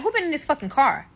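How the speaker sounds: retold outraged demand; angry accusation.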